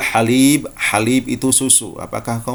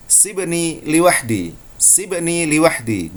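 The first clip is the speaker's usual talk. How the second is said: slow colloquial Arabic, a touch higher; colloquial Arabic accent; 5 semitones higher, slower than usual. Shown as a demonstration. Teacher demonstrating colloquial Arabic, slow. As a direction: say it slowly like a Gulf local. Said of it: "Orang Arab akan mengatakan".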